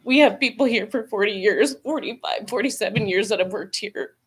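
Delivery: steady voice with shaky moments; emotional. Real, not acted. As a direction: voice catching with emotion. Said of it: "Sorry, I'm emotional right now".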